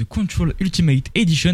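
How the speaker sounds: English game title in a French-tinged English accent; attempted English pronunciation from a French speaker. Real, not acted. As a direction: switch into your best English accent for the title. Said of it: "avec mon magnifique accent anglais".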